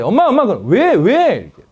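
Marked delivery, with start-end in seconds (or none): 0.0-0.5 high, eager call to mom; high-pitched child. Acted. Kids call mom, speaking high. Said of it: "애들이 높게 말해". 0.7-1.3 high, loud, eager answer; matching high reply. Acted. Mom matches her kids' high tone. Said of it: "애들이 높게 말해".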